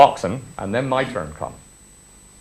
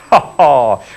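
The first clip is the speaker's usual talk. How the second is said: laughing; 4 dB louder than usual. Real, not acted. Laughing at his triumph.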